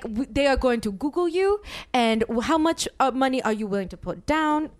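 lightly imitated Asian-accented manager. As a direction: put on a mild Asian accent, careful delivery. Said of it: "so much trouble for doing this accent".

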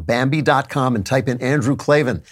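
brisk upbeat sponsor read. Acted. Host reading a sponsor spot to listeners, upbeat ad voice.

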